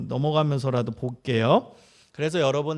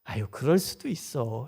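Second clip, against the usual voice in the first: slow, softer, comforting sigh of reassurance; calm a child down gently, no judgment; a parent easing a worried kid, slow and soft; soothing acceptance; 4 semitones lower, 4 dB quieter, slower than usual. Shown as a demonstration. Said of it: "이런 게 수용적 언어예요".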